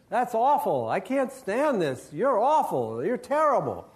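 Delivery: the ghost can't bear the singing; hammed-up outraged ghost; ghost fed up. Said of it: "and the ghost says".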